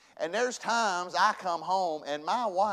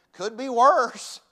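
slow, raised, emphatic motto; measured motto; 6 semitones higher, 8 dB louder, much slower than usual. Shown as a demonstration. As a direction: draw it out as a motto to remember. First, measured take of his motto.

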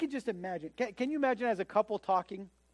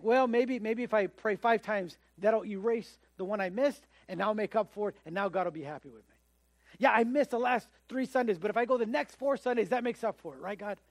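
wheedling bargainer; 3 semitones higher, 3 dB louder than usual. Retold or imitated. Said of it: "And then you think".

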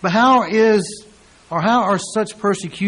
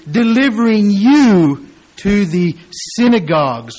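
"delivering you to the synagogues" loud and declaimed; preached loudly; 3 semitones higher, 7 dB louder than usual. Shown as a demonstration. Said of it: "repeated reading of verse".

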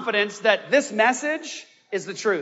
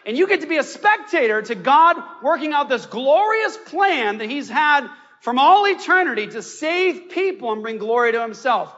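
ordinary delivery

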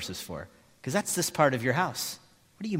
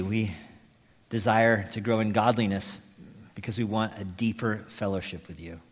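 earnest, measured prayer voice; closing prayer; 4 semitones lower than usual. Real, not acted.

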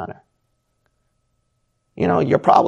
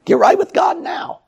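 a much higher, urgent cry to get right with God; urgent plea; 4 dB louder than usual. Real, not acted. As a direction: call them to repent now. Preacher's urgent climax.

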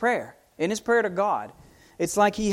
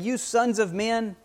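voicing David; 6 semitones higher than usual. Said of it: "David here is saying".

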